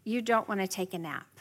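soft, calm echoing back. Shown as a demonstration. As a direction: mirror the child gently at eye level. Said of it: "Get down on eye level".

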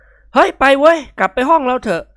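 swaggering daydream of victory; boastful young man. A narrator's reading.

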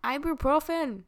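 mock German accent. Joking on aggressive German, mock German accent. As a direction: make an ordinary word sound aggressively German. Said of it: "aggressive German accent".

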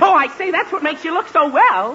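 high, eager backpedalling; butter up the challenger; emphatic placating compliment; hasty flattery. Acted. Son hastily flatters challenging father.

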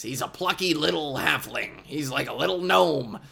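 lightly voiced plucky little halfling; a hint of a brave little gnome, chirpy; throat-straining small hero voice. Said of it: "and he talks like this".

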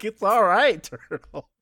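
retold Goku brushing off Turtle, high and loud; breezy reassurance. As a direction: toss it off cheerfully, up high. And Goku's like.

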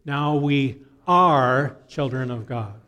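slow, each word spelled out for the congregation to repeat; slow call and response. Shown as a demonstration. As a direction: lead the room, slowly and deliberately. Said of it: "Can you say that with me?".

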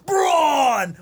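high, loud shouted name; hammed-up entrance call; mock entrance shout. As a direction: yell it like his music just hit. Announcing Braun's entrance.

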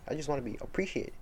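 monotone voice. Retold or imitated. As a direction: say it flatly, like yelling but monotone. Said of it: "monotone voice".

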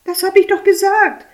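high, loud, irritated retort. Acted. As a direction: bite back, annoyed. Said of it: "erwidert sie gereizt".

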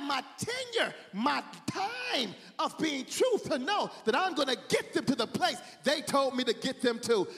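impassioned sermon delivery; fervent preaching. Acted. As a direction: preach it with rising fervor. Preaches at full force.

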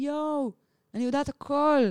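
high, wide-eyed "I know everything" rush; awed excitement. Retold or imitated. Retelling her trip to podcast friends, high and awed. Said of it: "ואני כזה מין".

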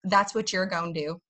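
put-on hillbilly redneck American accent; real podunk. American teaches a parent's line in a hillbilly accent. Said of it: "This is, like, real podunk".

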